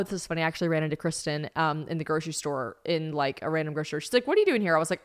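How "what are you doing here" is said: high-pitched friendly surprise, imitated; mock surprised, voice lifted high; surprised greeting. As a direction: act out bumping into an acquaintance. Retold greeting in grocery store.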